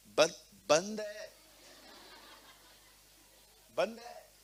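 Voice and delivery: slow hushed mic is off cue; mock whispered signal. Shown as a demonstration. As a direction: slowly mouth that the mic is off. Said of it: "mic बंद है".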